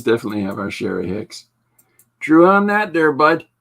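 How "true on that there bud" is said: lightly put-on Canadian hick drawl. Streamer answers chat about Canadian hicks in a hick voice. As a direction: play the folksy hick, a touch overdone.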